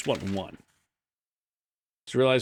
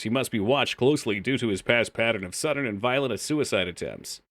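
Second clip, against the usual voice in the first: reading aloud. Acted. Reads character profile aloud.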